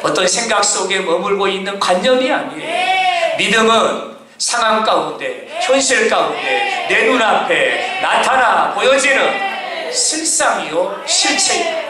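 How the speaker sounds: emphatic preacher cadence, rising to a peak; preaching. Acted. Pastor proclaiming to the congregation, emphatic preaching.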